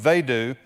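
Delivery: "They" leaned on before "do"; stress on they. Shown as a demonstration. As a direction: press on "They".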